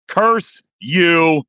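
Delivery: high, drawn-out playful curse; mock curse. Mock curse over a coming reveal.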